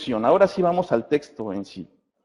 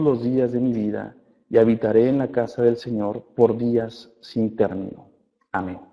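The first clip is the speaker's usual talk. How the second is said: scripture reading; 2 semitones lower than usual. Acted. Pastor reads Psalm 23 to the church, a calm scripture reading. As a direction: read the psalm to the congregation, unhurried.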